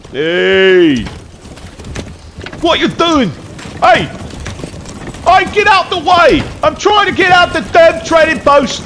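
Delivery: high, loud, yelling put-on country accent; put-on hick accent. Player yelling at blocked traders in put-on country accent. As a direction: shout at the stuck carts in a hammed-up country accent. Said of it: "I can't do that accent for that long".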